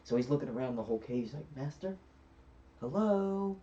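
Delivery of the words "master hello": high, drawn-out calling out; searching genie call. Retold or imitated. Genie looking around the whole cave for his master, calling out. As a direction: call round an empty cave, pitch climbing.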